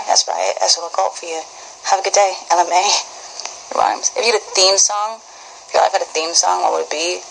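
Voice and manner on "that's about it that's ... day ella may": light, casual British accent; easygoing attempt at a British accent. Shown as a demonstration. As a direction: sign off in a modest British accent. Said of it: "good name for a British accent".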